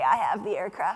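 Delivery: shaky, timid voice breaking nervously. Retelling a new pilot taking the controls on a first flight: imitating a nervous voice crack. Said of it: "you hear their voice crack".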